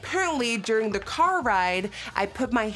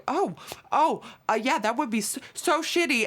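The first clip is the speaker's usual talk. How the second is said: nervous stammer; 4 semitones higher than usual. Retold or imitated. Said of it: "he's, like, sweating".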